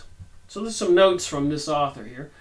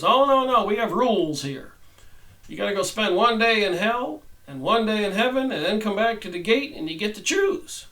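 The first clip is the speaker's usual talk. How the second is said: Saint Peter; 5 semitones higher than usual. Acted. Saint Peter explains rules.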